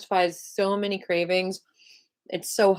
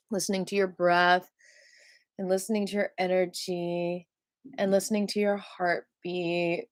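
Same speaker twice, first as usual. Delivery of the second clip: guided meditation voice. Acted. Leads meditation cue.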